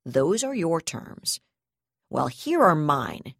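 grind out the threat, then explode; angry threat. Acted. Prisoner-threat standoff, rising fury.

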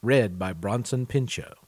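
smooth podcast ad read over music; announcer read. Acted. Podcast host introduces the audiobook to listeners, announcer read. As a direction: sell it like a radio spot, even and polished.

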